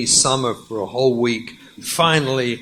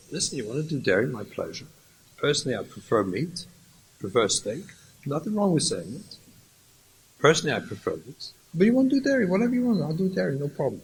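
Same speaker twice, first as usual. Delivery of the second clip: gentle husband; 6 dB quieter, much faster than usual. Acted. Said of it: "listen carefully".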